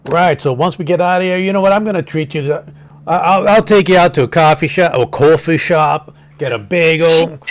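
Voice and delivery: loud, high Brooklyn wiseguy; big New York bada-bing swagger; Brooklyn accent. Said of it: "I can confirm everybody in New York talk like this".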